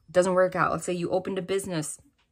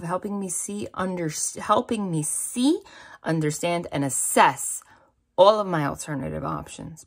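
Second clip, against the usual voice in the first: louder, deliberate prayer read-aloud; emphatic prayer reading; 4 dB louder than usual. Acted. Reader repeats the written prayer to stress its message, emphatic prayer reading. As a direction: read the prayer out with punched key words.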